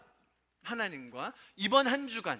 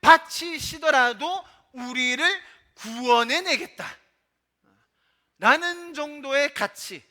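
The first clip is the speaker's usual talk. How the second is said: loud, high-pitched preaching with slow, stretched phrases; emphatic preaching; 6 semitones higher, 7 dB louder than usual. Real, not acted. Preacher proclaims God's sacrifice to the congregation, emphatic preaching. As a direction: preach it forcefully, drawing out the key words.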